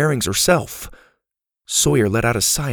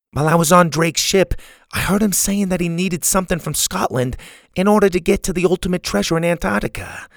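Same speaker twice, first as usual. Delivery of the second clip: higher-pitched grandma character voice; grandma, explaining; 8 semitones higher than usual. Acted. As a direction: fill the group in as grandma. Grandma figure reporting what she heard.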